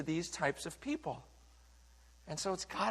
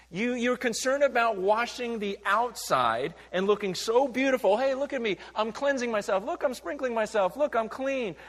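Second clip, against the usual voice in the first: high, showy sing-song mockery of a vain Pharisee; mock preening Pharisee; 5 semitones higher, 4 dB louder than usual. Pastor voicing Jesus mocking the Pharisees, high and showy. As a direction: ham up a self-admiring hypocrite.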